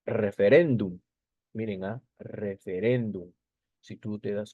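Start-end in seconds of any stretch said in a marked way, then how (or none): 0.0-1.0 "referéndum" with REN punched; stress on the penultimate syllable. Shown as a demonstration. Teacher showing students the stressed syllable, "referéndum" stressed on RÉN. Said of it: "la mayor fuerza de voz está en la penúltima sílaba". 2.2-3.3 slow "Referéndum", weight on RÉN; stress on the penultimate syllable. Shown as a demonstration. Teacher repeating for students, slow "Referéndum" stressed on RÉN. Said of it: "la mayor fuerza de voz está en la penúltima sílaba".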